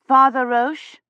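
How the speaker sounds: Father Roche called high and loud; calling clearly. A narrator's reading. Woman calling into a dark church, clear call. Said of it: "she called clearly".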